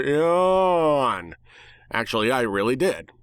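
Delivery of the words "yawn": mock yawn. Narrator mock yawns.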